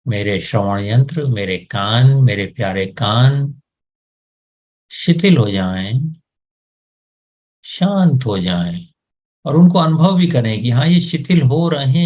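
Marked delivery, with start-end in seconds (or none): 0.1-8.9 soothing guided relaxation voice; calm command to the body. Shown as a demonstration. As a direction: coax the ears to let go. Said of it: "कानों को भी आदेश दें". (धीमी शांत ध्यान की आवाज़)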